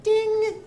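high bright ding, like a bell going off; ding sound. Retold or imitated. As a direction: chime out a sudden idea ding. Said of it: "and he's like".

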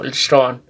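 "shron" with the O held a little longer; slightly long O. Shown as a demonstration. Teacher modelling the Kʼicheʼ name "shron" for Jerónimo, O slightly lengthened. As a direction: stretch the O in "shron", not too much. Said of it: "En la O alarga un poquito".

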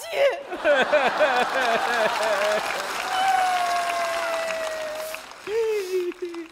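high, hearty burst of laughter; father cracks up at his daughter's wail; big laugh. Real, not acted. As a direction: let a real laugh burst out.

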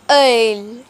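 Ale with a deep, rounded French vowel; French œil. Shown as a demonstration. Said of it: "you get ale".

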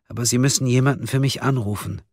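high, small, careful voice; fragile suspect. A narrator's reading. Fragile suspect pleads for a call. (zerbrechlich, mit hoher Stimme)

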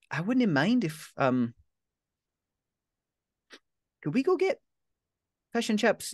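put-on shy hopeful teen. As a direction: ask shyly, half-smiling.

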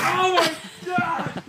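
shocked shout at the freezing water; in ice cold water. Real, not acted. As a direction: yell from the sudden cold. Dumped ice water on himself.

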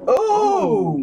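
put-on old lady exclamation. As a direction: cry it out like an old church lady. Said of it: "Somebody said".

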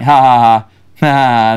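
mock knowing laugh, ha-ha-ha; imitated audience giggles. Audience who knew them catching the Braveheart quote, mock giggles. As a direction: imitate a few people chuckling in the crowd. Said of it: "like, a few giggles from the audience".

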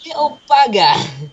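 put-on British accent. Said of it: "I said bugger".

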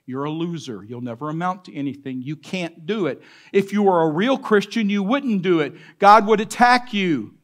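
accusing inner voice rising to a shout; the condemning voice in your head, building to a yell. Retold or imitated. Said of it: "the voice that they hear is a condemning voice".

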